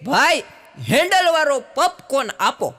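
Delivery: put-on high, loud girlish call to the vendor; girly request. Girl on scooter asking the popcorn vendor, high and girlish. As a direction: sweetly ask for popcorn like a city girl.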